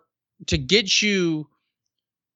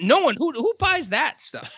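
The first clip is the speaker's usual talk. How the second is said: real amused disbelief, much higher; laughing disbelief; 10 semitones higher than usual. Real, not acted. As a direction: laugh through the question in disbelief. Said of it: "laughing disbelief".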